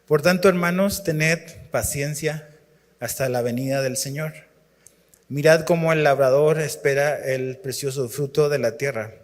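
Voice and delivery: leído con solemnidad, pausado; lectura bíblica. Acted. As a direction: lee el pasaje como Escritura sagrada. Lee la Escritura en voz alta. (lectura solemne de la Biblia)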